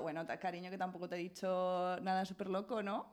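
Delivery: tono bajo y suave para calmar; quítale hierro con cariño, bajito y grave; tranquilizador. Retold or imitated. Tranquiliza al chico asustado. (imitando un consuelo suave)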